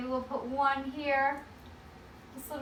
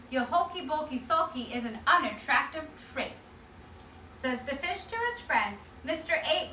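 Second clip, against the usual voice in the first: put-on lively read-aloud to children; story narration for kids. A narrator's reading. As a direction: read it like a picture book to a class.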